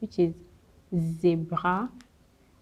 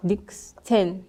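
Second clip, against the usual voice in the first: whisper. Shown as a demonstration. Whispered word in a lesson.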